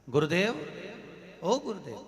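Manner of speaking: acted hail; calling out. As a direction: call the guru from outside. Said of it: "आवाज लगाई".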